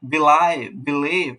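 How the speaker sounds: বিলিভ with short first syllable, heavy slow লিভ; stress on second syllable. Shown as a demonstration. Teacher demonstrating iambic words, stressed second syllable in বিলিভ. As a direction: keep বি small, stretch the লিভ of বিলিভ. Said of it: "এলটা অনেক বেশি ভারী হয়".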